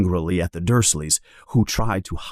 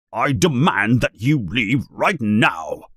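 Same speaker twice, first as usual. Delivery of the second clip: mild mock yell; 2 semitones higher than usual. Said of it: "yells Uncle Vernon".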